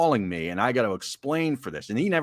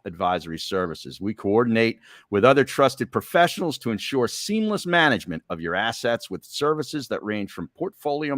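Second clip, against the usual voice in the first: upbeat sponsor read. Acted. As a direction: sell it like a radio ad. Reads sponsor ad.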